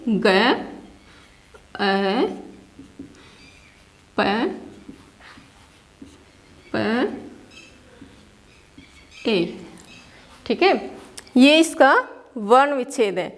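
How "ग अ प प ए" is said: ग, अ, प, प, ए as isolated sounds, long pauses between; letter-by-letter breakdown. Shown as a demonstration. Teacher splits गप्पे into its sounds for pupils, slow isolated sounds. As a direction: sound out each letter alone, unhurried. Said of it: "किस तरह से इसका वर्ण विच्छेद करेंगे".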